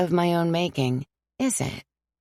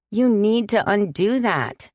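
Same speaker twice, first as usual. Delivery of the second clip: pleading; 5 semitones higher than usual. Acted. Sam pleading with Father John, urgent. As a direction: beg him to take it back. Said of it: "I pleaded".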